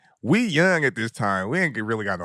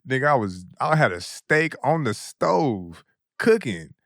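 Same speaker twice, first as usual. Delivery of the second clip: mock pleading friend; 2 semitones higher than usual. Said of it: "the nigga was like".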